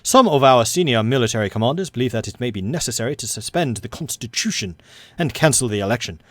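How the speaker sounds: put-on American accent drifting into English; American accent turning English. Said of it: "suddenly I went to an English accent".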